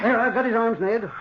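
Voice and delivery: high, effortful grunt of triumph; straining struggle. Acted. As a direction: wrestle the thing and call out. Doctor grapples with the ghost.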